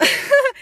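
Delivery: short high laugh; a quick laugh at herself. Real, not acted. Catching her apology habit: short high laugh.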